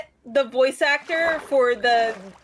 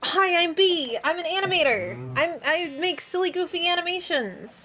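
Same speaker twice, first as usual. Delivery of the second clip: higher, bright anime intro voice; anime character voice; 6 semitones higher than usual. Acted. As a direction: introduce yourself like an anime hero. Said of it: "You sound like an anime character".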